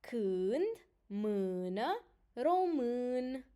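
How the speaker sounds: "Când, mână, român" with the central â drawn out; example-word pronunciation. Shown as a demonstration. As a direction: model each word alone, stretching its â. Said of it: "the other one is used inside the words".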